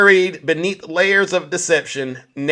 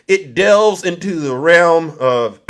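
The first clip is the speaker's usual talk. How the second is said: throat catching mid-phrase, pausing to clear it; words broken by a throat clear; choked up, clearing throat; 4 dB louder, slower than usual. Real, not acted. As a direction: push through a real catch in the throat. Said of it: "I'm choking up".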